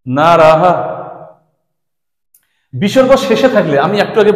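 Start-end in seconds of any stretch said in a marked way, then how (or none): 0.1-0.7 drawn-out না রাহা with a final "ha"; teacher's model না রাহা, final h sounded; visarga pronounced. Shown as a demonstration. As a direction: end না রাহা on a clearly breathed, echoed "ha". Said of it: "বিসর্গ থাকাতে উচ্চারণটা কেমন হচ্ছে".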